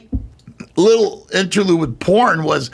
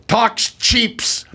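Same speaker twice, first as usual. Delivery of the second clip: put-on higher-pitched French-accented line; French actress adding an s to "cheaps"; 4 semitones higher than usual. Actress repeats her flubbed line, French accent. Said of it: "because of her French accent".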